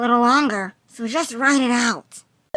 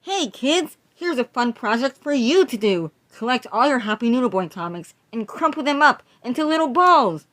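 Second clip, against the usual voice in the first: put-on cheery children's host read; upbeat kiddie presenter; kids' show host. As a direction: pitch a craft to kids.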